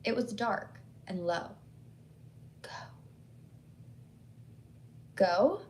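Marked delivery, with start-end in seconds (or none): 2.6-2.7 a dark, low, eerie whisper; frightening whisper. A narrator's reading. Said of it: "in a frightening whisper". 5.2-5.6 Go? rising like a puzzled question. A narrator's reading. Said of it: "with a questioning tone".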